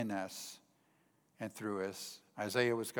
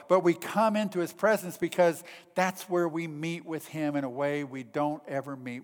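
higher, emphatic preacher's voice; forceful preaching; 5 semitones higher, 6 dB louder than usual. Real, not acted. Preacher telling congregation of the all-powerful God, forceful preaching. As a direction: proclaim it with rising conviction.

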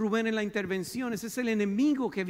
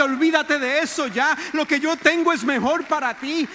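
God's voice; 5 semitones higher, 9 dB louder than usual. Acted. Preacher voicing God's words loudly.

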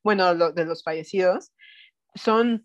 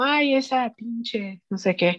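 crude uncle; 2 semitones higher, slower than usual. Retold or imitated. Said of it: "literalmente dijo así como".

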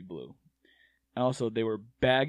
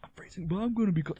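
whispering; 7 semitones higher than usual. Pretend. Acting out the pants swap.

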